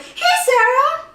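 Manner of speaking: high, drawn-out shout of greeting; calling out. Retold or imitated. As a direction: hail a classmate across the store. Calls out to classmate Sarah.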